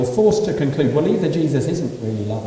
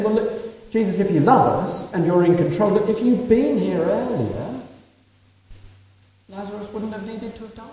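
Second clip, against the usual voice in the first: grieving sisters pleading; 7 semitones higher than usual. Retold or imitated. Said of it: "They're saying".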